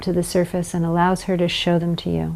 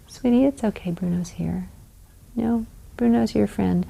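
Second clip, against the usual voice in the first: soothing parent; 2 semitones higher, 8 dB quieter than usual. Shown as a demonstration.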